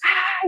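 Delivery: high, restrained "ah" of rage; mock rage cry. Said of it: "my rage just comes out".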